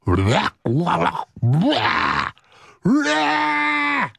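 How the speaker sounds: nonsense "blah" noises, ending high and drawn out; silly babbled blahs. Real, not acted. Host warming up his mouth before recording, silly blahs. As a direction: babble blahs, pitch leaping up.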